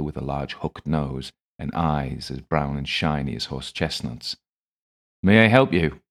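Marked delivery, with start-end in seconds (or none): 5.2-6.0 louder, higher West Country greeting; West Country English accent. A narrator's reading. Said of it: "his West Country English accent".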